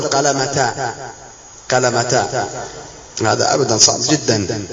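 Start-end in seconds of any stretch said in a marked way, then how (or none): 0.0-2.5 قلمتا with final "-ta" in place of h; wrong t reading. Shown as a demonstration. Teacher rejecting the form, قلمتا voiced with wrong t. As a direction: repeat قلمتا, each ending in open "ta". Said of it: "ما صار أن تقول".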